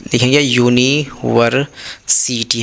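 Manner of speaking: देखेंगे यूनिवर्सिटी stretched out slowly; slow demonstration. Shown as a demonstration. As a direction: drag it out so the yu sound is heard. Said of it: "ध्यान से देखिए". (धीरे-धीरे खींचकर)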